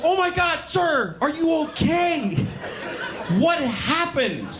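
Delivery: high, shocked, laughing mock concern; country girl. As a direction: imitate her naive alarm. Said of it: "She goes".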